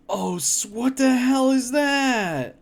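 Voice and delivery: slow disgusted yell at the cursed food; horrified shout. Real, not acted. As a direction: yell it out at the gross picture. Reacting to a cursed food picture.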